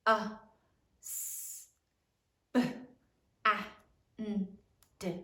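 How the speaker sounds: husband as isolated sounds, uh, s, b, a, n, d; one short sound at a time with gaps: uh, s, b, a, n, d. Shown as a demonstration. Teacher sounding out husband for the class, uh, s, b, a, n, d separately. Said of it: "Sound it out".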